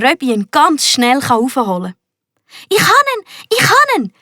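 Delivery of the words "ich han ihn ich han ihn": very high, breathless triumphant panting; boy bursting from the water with his coin; gasping. A narrator's reading. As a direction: gasp it out after surfacing. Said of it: "japst der Max".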